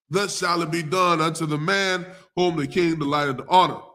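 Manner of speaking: solemn Bible reading voice; scripture reading. Acted. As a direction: read the verses with weight. Reads scripture passage aloud.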